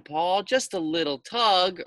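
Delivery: high wheedling voice; urging pigtail voice. Acted. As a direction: coax him sweetly. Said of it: "urged the pigtail".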